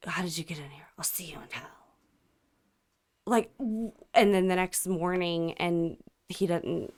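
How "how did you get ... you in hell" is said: imitating a soft, low monotone, sinking to whisper. Imitating the scared neighbor's words, monotone. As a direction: murmur it with no inflection. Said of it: "It was, like, so monotone the whole time".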